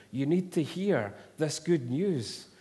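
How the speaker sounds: retelling the minister screaming the gospel to the flats; imitated scream. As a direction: proclaim it to the whole street. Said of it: "he's screaming".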